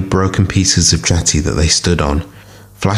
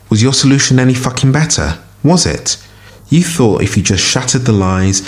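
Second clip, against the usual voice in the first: much higher, angry rising challenge; furious outburst; 6 semitones higher than usual. A narrator's reading. Fuzzy rounds on Flashjack, furious and much higher. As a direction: fling the question at him in fury.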